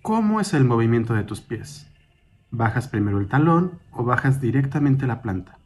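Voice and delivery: calm, measured meditation guide, slightly softened; guided meditation. Acted. Guide leading a listener through a mindful walk, calm guided meditation. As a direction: guide them gently through each step, with long pauses.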